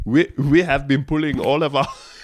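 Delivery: put-on French accent. Reading out a statement for the others: mock French accent. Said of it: "just decided to do the French accent".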